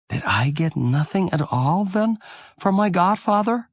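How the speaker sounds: put-on high, plaintive little boy asking; child's voice. A narrator's reading. Boy asking his father, high child's voice. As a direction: voice the small boy, pitched well up.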